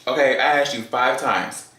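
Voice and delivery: retold rising irritation; getting hot. Woman to date who keeps asking why, getting hot. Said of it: "now I'm getting hot".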